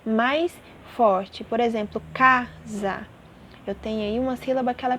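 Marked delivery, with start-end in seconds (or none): 2.1-3.1 CA-sa, first syllable of "casa" stronger; stressed syllable shown. Shown as a demonstration. Teacher showing the tonic syllable, stress on first of "casa". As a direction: split "casa" in two, leaning on "ca". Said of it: "pronunciada com mais intensidade".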